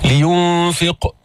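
slow "لينفق" with hummed n and bouncing final q; qalqala. Shown as a demonstration. Teacher demonstrates qalqala, echoed heavy ق in "لينفق". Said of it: "جيب القلقلة".

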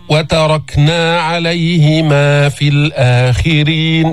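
slow, sustained tajweed chant; Quranic recitation. Shown as a demonstration. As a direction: recite with long, even held vowels. Recites the verse as model.

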